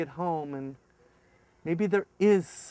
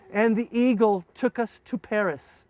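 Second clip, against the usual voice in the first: normal talking voice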